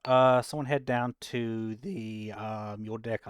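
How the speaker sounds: calling out. Real, not acted. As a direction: shout the order out to the crew. Calling out orders to the room.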